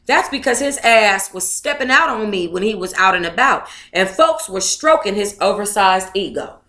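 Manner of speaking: reading a memoir aloud at an even pace; story narration. Acted. Vlogger reading the book passage aloud to viewers, steady story narration.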